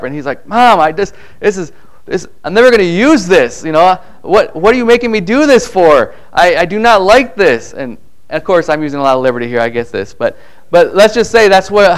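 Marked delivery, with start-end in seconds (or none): 0.5-7.7 put-on higher, complaining kid voice; a boy protesting to his mom, mock whiny; whining boy. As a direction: whine like a kid forced to practise. Young David complaining to mom.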